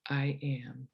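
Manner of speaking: breathy whispered I am; barely voiced inner whisper. Shown as a demonstration. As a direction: whisper the words to yourself. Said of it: "gently say to yourself the words".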